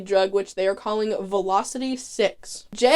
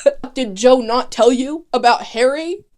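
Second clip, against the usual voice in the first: mock freak-out; 3 semitones higher, 5 dB louder than usual. Caitlin finding Harry shot, panicked and laughing. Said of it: "She's like".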